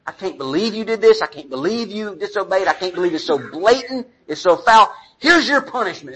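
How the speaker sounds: mock angry parent. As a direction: play the furious parent telling the kid off. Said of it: "in the heat of your anger".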